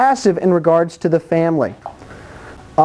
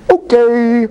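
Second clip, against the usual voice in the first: passive Adam agreeing; 3 semitones higher, 3 dB louder than usual. Retold or imitated. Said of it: "when she goes like this".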